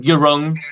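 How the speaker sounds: "wrong" said oddly, mocking the head coach; mimicked mispronunciation. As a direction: imitate the coach's odd "wrong". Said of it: "he couldn't say wrong properly".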